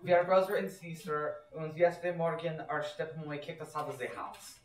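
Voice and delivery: put-on German accent. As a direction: announce it in a thick German accent. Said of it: "these fake German accents".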